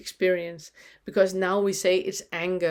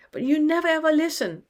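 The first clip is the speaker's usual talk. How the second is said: high, louder wounded inner voice, pleading; a higher, louder protest from a hurt little self; hurt inner child; 8 semitones higher, 4 dB louder than usual. Pretend. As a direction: cry out as the neglected part that feels unheard. Voicing the yelling shadow part.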